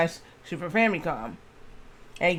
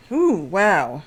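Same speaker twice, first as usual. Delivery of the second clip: burping; 4 dB louder than usual. Real, not acted. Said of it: "I'm burping like crazy".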